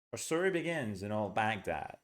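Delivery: story stressed, our and in reduced, voice rising and falling; English rhythm up and down. Shown as a demonstration. Teacher modelling natural English rhythm for students. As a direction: let story and Baghdad carry the beat in our story begins in old Baghdad. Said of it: "We go up and down".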